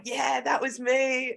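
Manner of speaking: retold admission. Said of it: "And I'm like".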